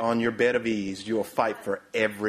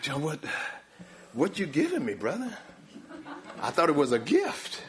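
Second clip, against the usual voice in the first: softer, halting, puzzled guest; mock bewilderment; 4 semitones higher, 4 dB quieter than usual. Guest questioning Brother John's gift, mock bewildered. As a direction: question the host in playful disbelief. Guest baffled by the host's conditions.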